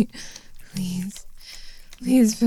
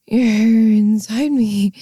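louder, very slow, each word drawn out; drawn-out loud gasp of words; slow awed exclamation; 5 dB louder, much slower than usual. Acted. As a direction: stretch every word in awe.

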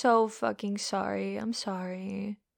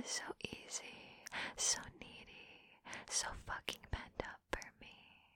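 whisper; 17 dB quieter than usual. Acted. Taunting partner.

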